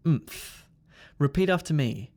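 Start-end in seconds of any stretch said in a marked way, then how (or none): 0.1-0.7 "Oomph" as a bare m released into th; MTH sound. Shown as a demonstration. Teacher introduces the next sound, "Oomph" as m plus th. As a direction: close on m, then push th, "Oomph". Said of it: "It's the M T H sound".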